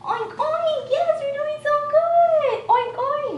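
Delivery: high, slow, playful pig oinks. Shown as a demonstration. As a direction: oink like a silly piggy for a toddler. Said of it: "being exaggerated".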